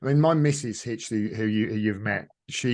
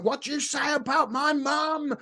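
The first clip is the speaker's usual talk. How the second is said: put-on Scottish accent; 13 semitones higher than usual. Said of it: "with a really Scottish accent".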